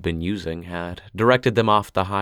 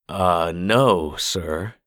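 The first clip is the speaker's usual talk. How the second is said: stuttering; much slower than usual. Acted. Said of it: "Gino stuttered".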